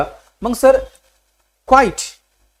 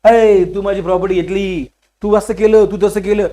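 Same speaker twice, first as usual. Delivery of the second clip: acted property squabble, voice raised; loud quarrelling; 3 semitones higher, 4 dB louder than usual. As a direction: hurl accusations as in a family row. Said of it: "loud loud करके बोलते".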